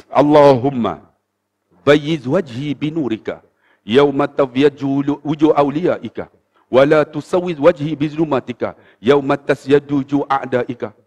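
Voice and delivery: slow, measured Arabic supplication; drawn-out, solemn recital; prayer recitation. Retold or imitated. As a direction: recite the Arabic slowly and evenly.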